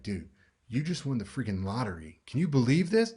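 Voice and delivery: thrilled, sharing big news with a friend; excited. Shown as a demonstration. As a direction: pitch climbing with excitement. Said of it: "your voice is gonna go up".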